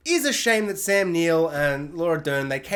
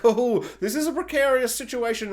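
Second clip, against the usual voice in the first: lightly imitated actor, a bit higher; Jeff Goldblum; 4 semitones higher than usual. Actor in a precarious spot, lightly imitated Goldbluming. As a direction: toss off a hint of the actor's mannerisms. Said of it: "Jeff Goldblum's Jeff Goldbluming about".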